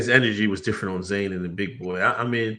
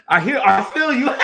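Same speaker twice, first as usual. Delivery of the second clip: much higher, quoting "I feel you" through laughter; laughing quote; 13 semitones higher, 6 dB louder than usual. Real, not acted. Laughing while quoting Big Boy.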